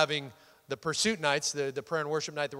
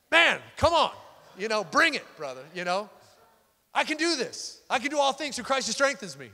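pumped-up self-talk; 5 semitones higher than usual. Retold or imitated. Fired up while praying.

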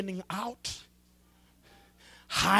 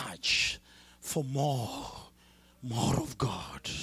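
slow, softer whisper; 6 semitones lower, 4 dB quieter, much slower than usual. Real, not acted. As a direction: breathe it out prayerfully. Preacher softens into prayer.

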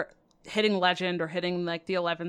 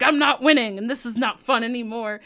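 frustrated inner voice; 3 semitones higher, 5 dB louder than usual. Retold or imitated. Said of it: "I start to get mad 'cause I'm like".

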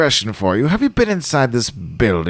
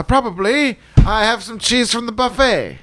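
high cheerful voice; 7 semitones higher than usual. Acted. High pleased reply to rat.

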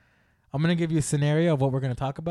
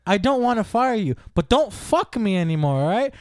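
higher, louder, insistent pushback; heated argument; 8 semitones higher, 4 dB louder than usual. Acted. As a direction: argue back hard and fast. Boss and employee argue heatedly.

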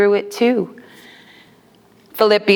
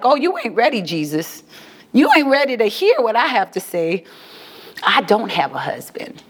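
lightly voiced sassy woman; a hint of attitude, dropping low at the end; Auntie Sam; 3 semitones lower than usual. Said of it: "transform into her body. That's why I talk like this".

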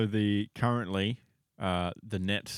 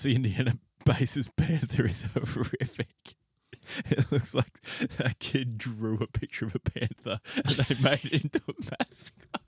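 laughing while talking; 4 semitones higher than usual. Real, not acted. Cracking up at the mascot costume.

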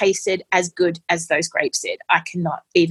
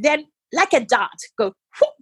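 playful whoop; 6 semitones higher than usual. Retold or imitated. Nurse demonstrates injection.

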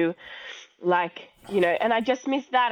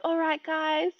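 a slow, hammed-up presenter voice, starting high; lightly voiced host opening a video; mock interviewer intro; 5 semitones higher, slower than usual. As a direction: play the cheesy Instagram host. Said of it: "like this".

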